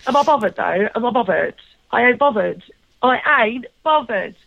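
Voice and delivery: lightly voiced cheeky teen, dismissive; mild imitation of a sassy teen; Lauren catchphrase. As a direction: toss it off like a bored schoolgirl. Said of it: "slipped into that character".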